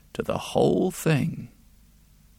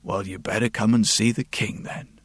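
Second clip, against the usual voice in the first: stern official; 4 semitones lower than usual. Acted. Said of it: "The chamberlain said".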